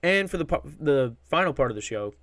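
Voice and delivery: tripping on a word and restarting; stumbling over words. Real, not acted. Podcast host introducing the final part of the show, stumbling over words. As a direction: break off mid-word, then restart the phrase. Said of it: "stuttering over my words here".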